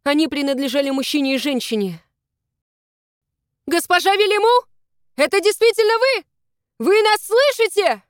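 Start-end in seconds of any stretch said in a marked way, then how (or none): 3.6-8.0 high, loud call over the edge. Acted. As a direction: shout down to find her. Rescuers call down the cliff.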